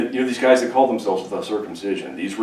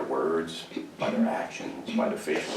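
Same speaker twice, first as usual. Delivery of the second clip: hushed aside; 4 semitones lower, 11 dB quieter than usual. Acted. Preacher whispers to congregation, hushed aside. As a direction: whisper it, much softer.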